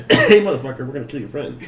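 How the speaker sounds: half-played yelled threat; acted yell. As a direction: call out a pretend hostage threat, then ease off. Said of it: "and I yell".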